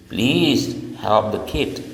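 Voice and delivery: slow polite request. Shown as a demonstration. Teacher demonstrating a polite request. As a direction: ask politely, drawing it out.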